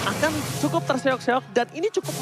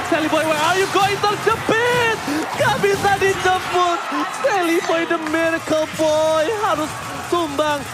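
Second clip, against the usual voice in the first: excited; 4 semitones higher, slower than usual. Real, not acted. Caster hyping a trapped player.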